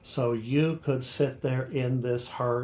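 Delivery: slow "so YOU could SIT there IN this HEART"; measured verse reading of "you could sit there in this heart", every other syllable accented; iambic stress. Shown as a demonstration. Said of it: "accenting every other syllable".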